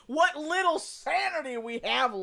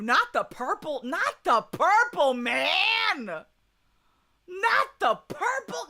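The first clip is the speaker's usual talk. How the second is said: mock protest; 6 semitones higher than usual. Real, not acted. Streamer protesting chat's Thanos pick, building to an outcry.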